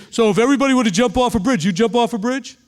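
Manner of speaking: a hint of a nagging parent scolding a child; parent's scolding. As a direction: tell a kid off like a parent would. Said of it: "heard your parents say to you".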